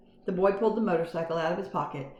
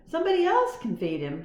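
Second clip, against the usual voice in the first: put-on sulky boy; 7 semitones higher, 4 dB louder than usual. A narrator's reading. Garf voiced.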